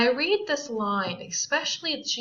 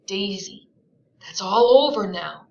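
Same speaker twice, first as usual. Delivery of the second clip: earnest; 8 dB louder than usual. Acted. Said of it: "he said earnestly".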